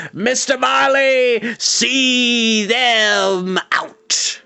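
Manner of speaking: stretched, ringing theatrical cry; grand proclamation. Acted. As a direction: proclaim the last trick like a carnival barker. Moundshroud's grand farewell proclamation.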